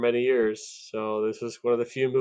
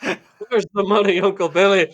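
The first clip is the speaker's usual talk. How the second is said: higher, louder, desperate shout; angry yell; 8 semitones higher, 8 dB louder than usual. Retold or imitated. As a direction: yell it at the careless uncle. George Bailey's yell at Uncle Billy.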